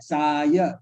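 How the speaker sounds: "saya" stretched into sa and ya; two-syllable demo. Shown as a demonstration. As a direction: sound out "saya" in two drawn beats. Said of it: "two syllable".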